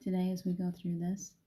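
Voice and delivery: gentle, even invocation voice; calm spiritual meditation read; guided meditation. Acted. Calls in angels in meditation.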